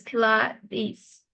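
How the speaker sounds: "Pilates" slow, syllable by syllable, ending in a long ee; pronunciation demo. Shown as a demonstration. Teacher correcting student's word, slow, careful "Pilates". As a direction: draw out "Pilates" as pi-LAH-teez. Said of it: "So it's pronounced as".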